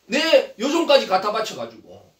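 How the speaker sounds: acted grievance, drawn out slowly; indignant wife confronting her husband; angry complaint. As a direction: stretch the accusation out with indignation. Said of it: "그러면서 막 화를 내지요".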